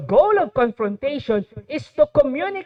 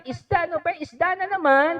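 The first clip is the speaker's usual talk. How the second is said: mock complaining; 5 semitones higher than usual. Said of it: "ma-complain".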